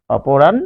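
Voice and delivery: অপরাণ ending on a held n, no vowel after it; syllable-final n. Shown as a demonstration. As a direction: stop অপরাণ on the n. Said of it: "আমরা যে হর্ষন্ত দিচ্ছি". (অপরাণ, শেষে হসন্ত ন)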